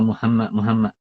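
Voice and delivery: sloppy Muhammad with the wrong h; wrong pronunciation. Shown as a demonstration. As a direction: say Muhammad carelessly, light h, muhama. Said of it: "tu dah huruf lain dah".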